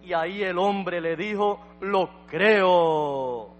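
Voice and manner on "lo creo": drawn-out, emphatic declaration; imitated believer's fervent cry; retold cry of faith. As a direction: call it out with conviction, holding the last word. Man declares his faith to prophet.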